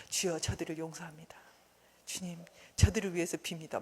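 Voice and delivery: subdued, low pious murmur; insincere pious prayer. Acted. Believer claiming to forgive before God, meekly insincere. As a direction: pray dutifully, as if not meaning it. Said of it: "막 이런 거짓말이잖아요".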